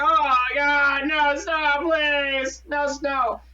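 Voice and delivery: mock despairing whine about snow; mock pleading. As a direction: beg the snow to stop like a hammed-up whiner. Dreading stepping into snow.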